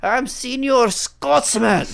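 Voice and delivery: eager, rushed promo read; pushy overexcited plug; over-anxious. Real, not acted. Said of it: "I sounded really over anxious there".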